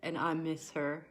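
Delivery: emotional, near tears. Real, not acted. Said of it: "I'm sorry if I start to cry".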